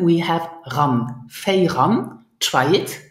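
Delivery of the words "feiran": "Feiran", Fei joined straight to ran; "Feiran" with a rising, prompting end; reduced linked form. Shown as a demonstration. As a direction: model "Feiran" for the learner to copy. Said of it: "we reduce the Feier to Fei".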